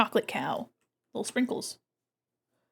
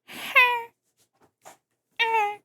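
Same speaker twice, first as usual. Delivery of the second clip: cat honk; 12 semitones higher than usual. Retold or imitated. Imitating the TikTok cat's honk. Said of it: "the cat just goes".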